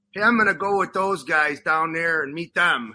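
put-on lightly done Chicago street accent; a hint of Chicago street accent. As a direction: imitate your own street Chicago talk. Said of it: "used my street Chicago accent".

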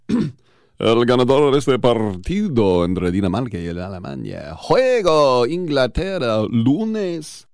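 Spanish-language soccer announcer voice; Spanish accent, match-promo style. Pretend. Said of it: "I can't say it with a Spanish accent".

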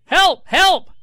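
high, loud mock scream for help; screaming toddler. Dad imitating his daughter screaming for help over a toy. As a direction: shriek it like a frantic two-year-old. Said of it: "she starts screaming".

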